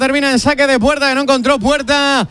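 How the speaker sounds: football radio commentary, steady running call; live play-by-play. Real, not acted. Commentator telling listeners about Milla's cross, play-by-play.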